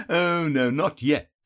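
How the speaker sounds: high chuckle, then teasing refusal; laugh, then scold playfully; amused villain wagging a finger; Feanor. A narrator's reading. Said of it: "Feanor laughed and shook his finger".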